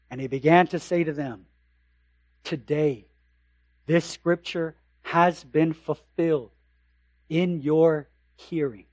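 solemn hushed scripture reading. Acted. Reads Jesus' words from Luke.

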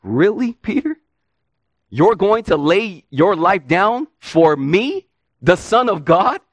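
a doubting Really, Peter? with a rising question; preacher challenging Peter's vow with mock doubt; mock disbelief. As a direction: tease Peter's boast in disbelief. Preacher mocking Peter's claim.

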